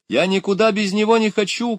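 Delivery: put-on high, loud child's protest; crying out. A narrator's reading. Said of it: "кричала Люська". (громкий детский крик протеста)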